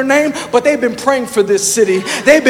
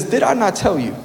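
parent scolding; 3 semitones lower, 6 dB quieter than usual. Acted. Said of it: "That's how a parent talks to a child".

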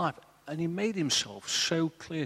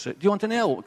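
higher, louder offer of help; helicopter man calling; 8 semitones higher, 6 dB louder, faster than usual. Retold or imitated. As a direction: shout down over the rotor noise.

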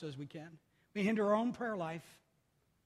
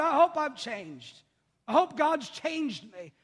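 slow earnest; 5 semitones higher, 6 dB louder, slower than usual. Real, not acted. Earnest slowed confession.

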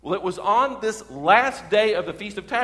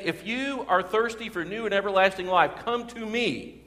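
raised pitch, mild call to a crowd; crying out; 4 semitones higher than usual. Acted. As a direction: appeal to thousands without really shouting. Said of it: "he's crying this out to thousands of people".

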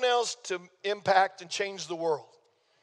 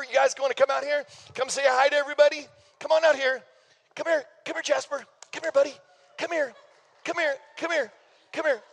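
higher, coaxing call to the dogs; higher, eager puppy-calling voice; calling puppies; 5 semitones higher than usual. Real, not acted. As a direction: sing out to the puppies to come. Pastor calling puppies onstage.

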